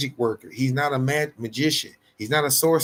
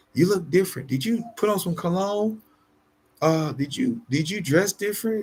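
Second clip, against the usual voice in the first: ladylike, feminine delivery; 5 semitones higher than usual. Showing how a woman should speak to her man: feminine tone. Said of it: "you gotta be feminine".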